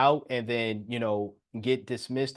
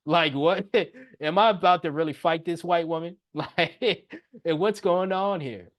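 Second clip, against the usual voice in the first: laughing; 4 semitones higher than usual. Retold or imitated. Laughing at the standoff.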